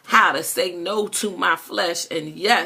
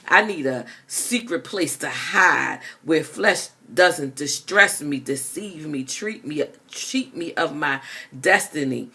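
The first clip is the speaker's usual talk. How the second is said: rhythmic spoken-word delivery, punching the rhymes; spoken word poem. Acted. Poet reciting to her listeners, spoken-word style. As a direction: perform the poem like a slam reading. Poem continues after the shout.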